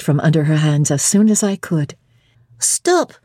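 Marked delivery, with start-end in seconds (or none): 2.6-3.1 much higher sudden cry; cried out. Acted. Sophie stopping the bride at the door, high cry. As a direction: halt her with a high call. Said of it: "she cried in French".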